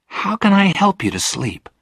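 high, earnest offer of help; tender, high voice; sympathetic girl. A narrator's reading. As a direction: ask the ghost with high-pitched concern. Girl anxiously offers the ghost help.

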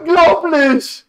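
slow, drawn-out and high; stunned disbelief. Real, not acted. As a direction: stretch it out in shock. Stunned by the final result.

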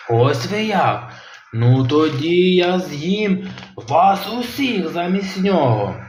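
slow, drawn-out sea monster question; menacing monster. Acted. Kronosaur interrogating Robin, slow menacing monster voice. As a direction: loom over him slowly.

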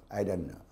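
"I don't know" with a short d off the gum ridge; short English alveolar sound. Shown as a demonstration. Teacher shows students English "I don't know", short alveolar d. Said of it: "짧은 소리가 나오지 않습니까?".

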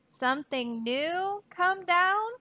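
put-on the page boy can't believe his ears; a startled gasp of disbelief; gasping surprise. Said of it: "Bartholomew gasped".

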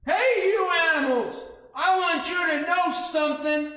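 loud, high call up to the tree. Acted. Peddler calling up to the animals in the tree, loud and high. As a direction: demand their attention loudly.

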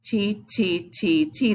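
four even, separate "ti" beats; measured chant of "ti, ti"; counting syllables. Shown as a demonstration. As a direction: count out each "ti" steadily. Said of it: "count how many syllables they are".

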